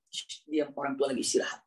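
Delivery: low, softened shushing; hushing. Shown as a demonstration. Child hushing others while parents rest, low and soft. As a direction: hush others, keeping the voice down. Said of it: "Makanya suara kira-kira".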